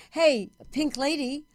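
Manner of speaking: imitated call-out, high and drawn out; retold yell. Stranger hailing her down the hall, mock yell. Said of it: "someone yelled".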